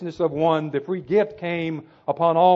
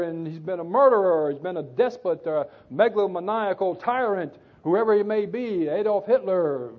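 protesting churchgoers. Acted. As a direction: stammer out a churchgoer's mock-aggrieved complaint. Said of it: "But that's the way man".

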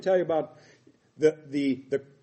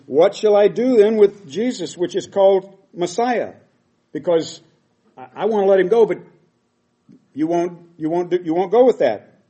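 raised, higher voice, Pilate arguing with the crowd; pleading Pilate; 4 semitones higher, 8 dB louder than usual. Acted. Pilate begging the crowd to release Jesus, raised and pleading. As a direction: plead with them to let him go.

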